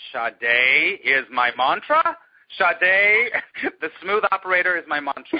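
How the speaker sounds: loud, high, incredulous question breaking into laughter; laughing disbelief. Retold or imitated. Student laughing out on the street at the mantra, incredulous. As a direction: say it as if it is too absurd. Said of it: "I just laughed and laughed".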